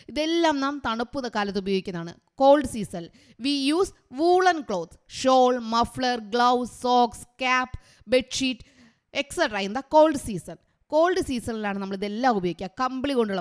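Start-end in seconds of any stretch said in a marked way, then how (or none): 2.3-5.0 slow dictation. Shown as a demonstration. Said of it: "നിങ്ങൾ എഴുതിക്കോളുക കേട്ടോ". 9.1-10.6 slow dictation. Shown as a demonstration. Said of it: "നിങ്ങൾ എഴുതിക്കോളുക കേട്ടോ".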